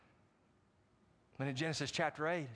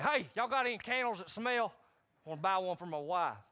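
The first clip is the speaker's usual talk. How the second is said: loud mock macho shop talk; gruff manly customer; 4 semitones higher, 4 dB louder than usual. Man buying candles in the shop, mock macho and loud. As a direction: play the tough guy at the counter. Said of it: "like a man".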